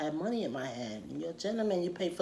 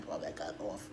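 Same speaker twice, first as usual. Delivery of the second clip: whispering; 9 semitones lower, 8 dB quieter, faster than usual. Real, not acted. Aside dropped to a whisper.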